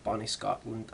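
a light hint of a put-on Scottish accent. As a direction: toss off "Bonnie" in a mock Scottish lilt. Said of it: "I don't know why I put on that accent".

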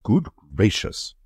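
mild fuming exclamation; a touch of exasperation, slowed. Acted. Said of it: "fumed Egbert".

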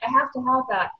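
high-pitched imitation of eager friends; excited friends. Retelling friends' reaction to the new technology, excited and high. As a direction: gush it like friends who must have it.

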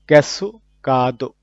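slow, loud "ক্যাসুকাদো"; careful teacher's model of "ক্যাসুকাদো"; Japanese word modelled. Shown as a demonstration. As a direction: draw out "ক্যাসুকাদো" syllable by syllable. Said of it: "vocabulary word modelled".

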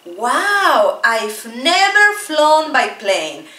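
slow amazed line; a first-time flyer's wonder, understated; teacher imagining her first flight; mild wow. Shown as a demonstration. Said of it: "For example".

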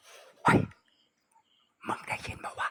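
frightened hushed whisper, no voice at all. Retold or imitated. Whispering to his friend after the bang at the door, scared. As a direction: breathe the question so nothing outside hears. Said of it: "ผมกระซิบถามมันว่า".

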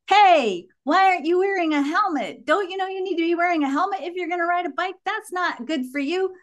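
put-on high, fast little-kid scolding; toddler yelling. Mother imitating her toddler scolding cyclists from the balcony, high. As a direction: pitch way up like a bossy small child. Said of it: "She would yell things like".

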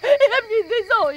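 laughing through tears. Acted. Wife sobbing at relief money.

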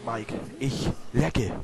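talking while licking an ice cream. Real, not acted. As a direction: speak with ice cream at the lips. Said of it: "Auf jeden Fall lecke ich".

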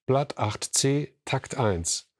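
slow dictation, rising at the end; strict teacher. Acted. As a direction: repeat it slowly like a dictation. (langsames Diktieren mit steigendem Ende)

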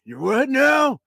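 put-on high, slow cranky old man; old grandpa voice. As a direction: bark like a grumpy grandpa. Grandpa ghost voice.

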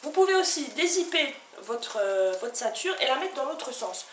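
pitching the skirt to viewers like a teleshopping host. Acted. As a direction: sell it like a TV shopping host. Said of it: "j'ai l'impression d'être en téléachat".

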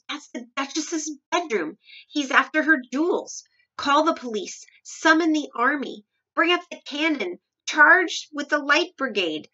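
high, loud, blustering commands; rally the troops in a panic; alarmed cry. A narrator's reading. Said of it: "cried the Duke".

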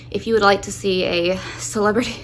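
breathless, catching air; winded talking; out of breath. Real, not acted. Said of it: "I'm still out of breath".

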